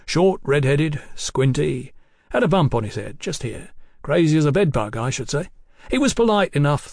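lightly voiced chatty tradesman king; a hint of a garrulous bill-sticker, unruffled; bill-posting king.

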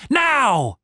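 high, insistent single-word call; pressing command; urgent signal. Acted. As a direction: give the go, pitch leaping then falling. Half-elf repeats the signal.

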